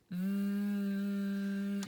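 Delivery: V held long, top teeth on lip, voice buzzing; voiced V. Shown as a demonstration. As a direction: stretch the V with voice on. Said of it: "Voice is on".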